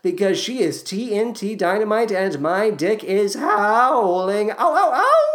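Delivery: high, cartoonish voice with a laugh breaking through; howling lovesick Marius. Lovesick Marius howling over Cosette, high hammed-up voice. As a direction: ham up a lustful young man, howling "Ow, ow, ow".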